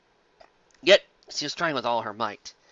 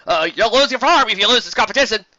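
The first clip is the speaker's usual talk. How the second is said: higher, louder sneer; smug warning; 8 semitones higher, 9 dB louder than usual. Acted. Flam threatens Carrot Top's farm, sneering.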